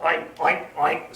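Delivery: a touch of a snort; snorting pig. Acted. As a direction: oink like a pig. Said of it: "snorted Pig".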